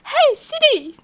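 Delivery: high, drawn-out, comically hopeful "Hey Siri". Retold or imitated. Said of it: "换一个声调".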